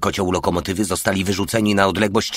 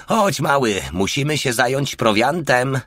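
higher, eager call to a pal; cheerful summons; 7 semitones higher than usual. A narrator's reading. Porta calling Mały to the provisions, higher and eager. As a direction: call him along brightly, voice up.

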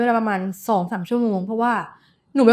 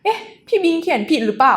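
pitched-up puzzled "eh?" to herself; puzzled wonder; 6 semitones higher than usual. Retold or imitated. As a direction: wonder aloud if it's a typo. Retells own puzzled reaction. (แปลกใจสงสัยเบาๆ)

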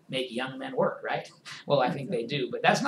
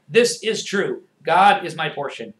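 louder, firm declaration; a firm, louder confession of faith; with conviction; 7 dB louder, slower than usual. Shown as a demonstration. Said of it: "say it with conviction".

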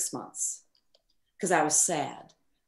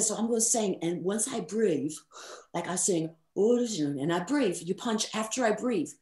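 put-on British accent. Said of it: "I'll try to do the accent".

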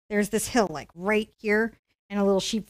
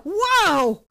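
startled whoa; 8 semitones higher, 3 dB louder than usual. Retold or imitated. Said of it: "And I'm like".

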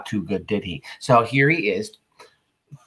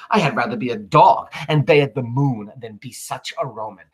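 a touch louder, declaiming the verse; dramatic Shakespeare reading; 3 dB louder than usual. Acted. Teacher reading Cassius's speech to class, declaiming. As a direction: read Cassius's lines like a stage actor.

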